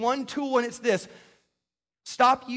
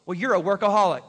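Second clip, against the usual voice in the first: accusing you statement; 5 dB louder than usual. Shown as a demonstration. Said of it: "Let me give you a couple other ones".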